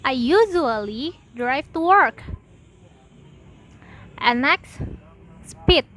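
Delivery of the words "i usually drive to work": "usually" and "work" punched; sentence stress. Shown as a demonstration. Teacher repeating stress example, "usually" and "work" emphasised. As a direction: make "usually" and "work" stand out. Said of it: "Louder pronunciation on content words".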